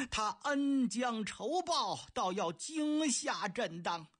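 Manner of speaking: slow, indignant emperor cursing the thief; emperor angry. Acted. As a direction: spit out each accusation slowly. (杨广气愤地数落)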